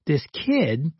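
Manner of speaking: ordinary talk, nothing marked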